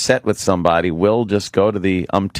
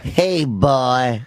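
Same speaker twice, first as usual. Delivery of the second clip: slightly high Southern drawl; Southern accent; 5 semitones higher than usual. Retold or imitated. Showing co-hosts how he said it, mock Southern accent. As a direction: imitate a drawling Southern "boy". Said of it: "He's got the accent".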